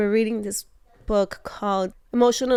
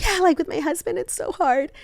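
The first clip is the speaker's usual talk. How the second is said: giggly; 8 semitones higher than usual. Retold or imitated. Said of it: "we're all giggly".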